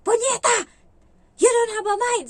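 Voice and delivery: high, loud furious screaming; furious yell. Retold or imitated. The employer screaming insults at the maid. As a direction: explode at the maid like a raging boss.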